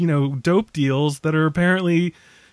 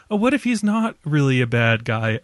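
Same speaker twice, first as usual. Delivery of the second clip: put-on Boston accent; 4 semitones lower than usual. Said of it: "slipping into my shitty Boston accent".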